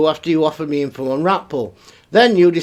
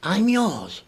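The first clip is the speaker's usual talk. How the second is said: muttered, softer disbelieving echo; quiet disbelief; 6 dB quieter than usual. Retold or imitated. Reading a stalker's email, quietly incredulous. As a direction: repeat it under your breath, stunned. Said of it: "I'm thinking".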